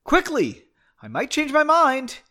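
loud, high, sharp urging; high-pitched shouted warning. A narrator's reading. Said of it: "Henry urged him on".

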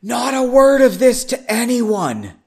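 serious low whisper. Acted. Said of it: "In a low whisper ... with a serious voice".

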